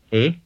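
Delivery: "e" as a short vowel. Shown as a demonstration. Teacher models a shorter version of the vowel, short "e". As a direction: keep "e" short. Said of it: "A shorter version of this vowel".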